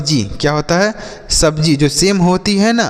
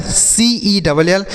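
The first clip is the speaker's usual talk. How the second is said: slow spelling out; 3 semitones higher, much slower than usual. Shown as a demonstration. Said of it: "इसे हम पढ़ेंगे सेल".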